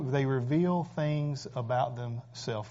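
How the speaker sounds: slow, each word set apart; slowed-down repeat for emphasis; slow, deliberate restatement. Shown as a demonstration. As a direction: let it sink in slowly. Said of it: "repeats the phrase slowly".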